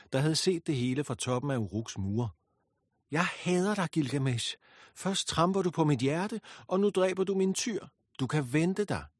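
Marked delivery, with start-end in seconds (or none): 3.1-9.1 high, loud raging cry; hateful shriek. A narrator's reading. Ishtar cursing Gilgamesh from Uruk's walls, high loud fury. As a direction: hurl your hatred from the walls. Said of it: "Et skrig flængede luften".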